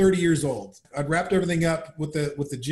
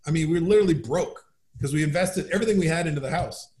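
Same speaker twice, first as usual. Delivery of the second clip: normal talking voice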